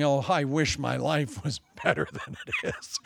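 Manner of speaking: soft, sighing wish; mock groaning lament. Shepherds crying out to God, soft mock groan. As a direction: groan it like a tired soul. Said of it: "just crying out and groaning, going".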